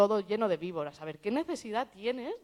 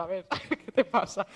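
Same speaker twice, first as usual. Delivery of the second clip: laughing quote. Retold or imitated.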